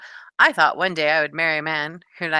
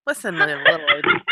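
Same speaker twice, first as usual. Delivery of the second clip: squeaky high breathy whisper of a movie hero line; hammed-up tiny voice, teasing; mock movie line; 3 semitones higher, 4 dB louder than usual. Quoting a movie line about Star Wars.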